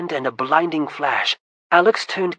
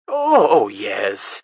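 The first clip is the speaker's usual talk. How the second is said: dismissive; 6 semitones lower, 5 dB louder, much slower than usual. Acted. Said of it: "dismissive way".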